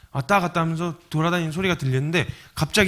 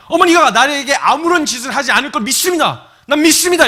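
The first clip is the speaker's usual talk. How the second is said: mock fervent declaration, loud and high; hammed-up strenuous profession of faith; straining to believe; 9 semitones higher, 8 dB louder than usual. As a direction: force out belief with all your might. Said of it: "막 애를 쓰고 용을 쓰는".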